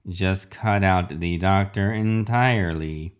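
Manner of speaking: slow, measured villain threat; refrigerator villain. Acted. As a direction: spell out the threat slowly.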